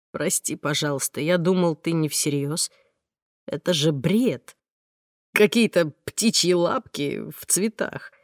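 a hint of a sheepish man; calm man. Mark apologises to the heroine, calm male voice.

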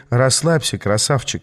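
usual speaking voice

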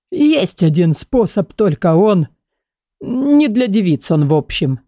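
put-on slow, husky old book voice; hoarse voice. Gerhard answers the books, husky and slow. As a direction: rasp it out slowly.

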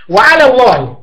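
ordinary talk

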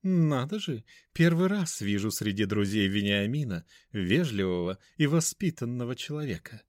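cooing. Acted. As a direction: coo it, pleased. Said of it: "почти проворковала".

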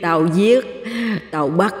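menacing ghost voice; ghost threat. Acted. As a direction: hiss the threat like a vengeful ghost. Ghost threatening after cackle.

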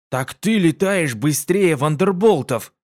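медленно, с восхищённым изумлением; поражённо выдохнуть восторг; изумлённо. Acted. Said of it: "обалдел Вуд". (Карви поражён скоростью подруги, изумлённо)

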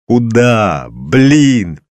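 loud, high exasperated cry; hysterical outburst. A narrator's reading. Distraught father snaps back at colleague, hysterical.

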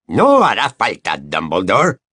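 lightly growled character voice; a touch of sibilant growl; hissing growl. A narrator's reading. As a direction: growl it with a slight hiss. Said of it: "una voz que era como un gruñido sibilante".

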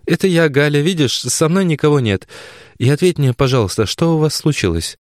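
a daughter holding back a scream; Galya pleading. A narrator's reading. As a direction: daughter calming her mother, restrained and pleading. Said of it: "начала она".

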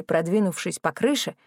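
ordinary delivery

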